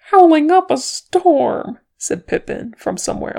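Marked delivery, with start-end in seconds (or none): 0.1-1.8 louder and slower, higher pitched; loud echo. Acted. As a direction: boom the words back from under a blanket. Pippin echoes from under blanket.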